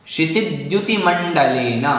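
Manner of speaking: क्षितिद्युतिमण्डलेन as one compound, doubled d closing क्षिति into द्युति; joined pronunciation. Shown as a demonstration. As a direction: model क्षितिद्युतिमण्डलेन in metre. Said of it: "इस तरह से बोलें". (क्षितिद्युतिमण्डलेन को जोड़कर, छंद में बोलें)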